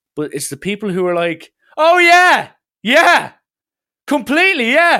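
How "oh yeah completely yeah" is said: put-on scream, much higher and louder. Imitating people who shout agreement in a shared house, mock-screaming. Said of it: "you're actually screaming at me".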